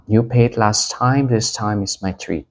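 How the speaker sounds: slow, easy offer to pay this time; slow example sentence. Shown as a demonstration. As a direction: insist kindly on paying, slowly. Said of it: "Bạn đã trả tiền lần trước rồi". (chậm rãi nói lần này tôi mời)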